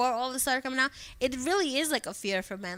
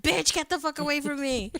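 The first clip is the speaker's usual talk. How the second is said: higher-pitched mock outburst at being helped; retold drunken snap; 5 semitones higher, 3 dB louder than usual. Drunk friend to the one helping count his money, mock snap. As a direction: imitate a drunk friend lashing out.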